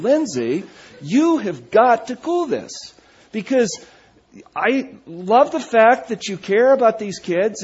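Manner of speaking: come-to-Jesus talk with daughter; stern dad lecture. Retold or imitated.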